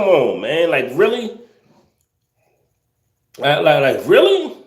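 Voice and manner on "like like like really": incredulous. Real, not acted. Streamer stunned that people fight over sandwiches, incredulous. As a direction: shoot way up in pitch, baffled.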